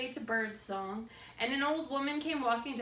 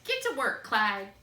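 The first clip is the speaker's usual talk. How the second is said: put-on old woman ordering; 2 semitones higher, 9 dB louder than usual. A narrator's reading. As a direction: bark it like a bossy old woman. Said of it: "she said".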